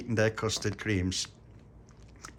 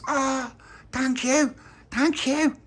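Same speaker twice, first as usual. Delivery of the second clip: tearful thanks; 5 dB louder, much slower than usual. Acted. Tony moved to tears by kindness.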